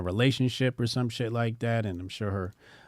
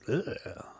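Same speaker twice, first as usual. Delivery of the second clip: short groan of disgust; disgusted ugh; 3 semitones higher, 6 dB quieter than usual. Real, not acted. Host reacting to a catfish, disgusted groan. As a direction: recoil with a soft ugh.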